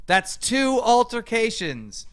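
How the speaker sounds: "two" dragged out and stressed, slow. Retold or imitated. To the viewers, slowly stressing "two" altercations. Counting altercations, mocking emphasis.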